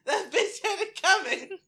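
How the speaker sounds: hammed-up grudge through giggles; mock rant.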